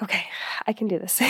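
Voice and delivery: breathy self pep-talk whisper. Retold or imitated. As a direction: whisper it to psych yourself up. Pep-talking herself while breathless.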